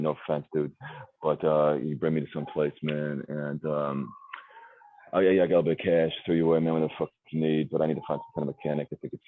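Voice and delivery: lightly voiced street guy, casual and pleading; a hint of a stranded street guy, fast and pleading; street guy mode. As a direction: slip into a stranded street dude asking for help. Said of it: "I can go into that mode too".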